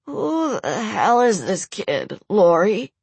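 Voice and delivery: high, slow, desperate pleading; injured man. Acted. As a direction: beg for help through pain.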